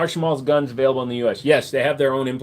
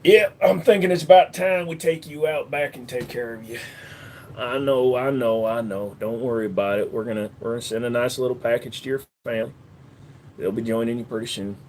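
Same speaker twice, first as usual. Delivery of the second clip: Texas menace; 2 semitones lower than usual. Shown as a demonstration. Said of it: "Texas is just kind of a slow talk".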